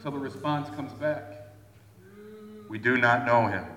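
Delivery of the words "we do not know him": stern priest refusal. Retold or imitated.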